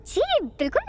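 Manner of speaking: a light smiling yes. A narrator's reading. Girl smiling as she answers the boss. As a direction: agree sweetly with a smile. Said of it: "शिजा ने मुस्कुराते हुए कहा".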